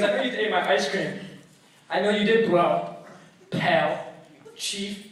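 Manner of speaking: mildly heated, loud challenge; accusing. Retold or imitated. Roommate confronts guest over ice cream, accusing. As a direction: call him out with pointed pauses between names. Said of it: "He's calling me out".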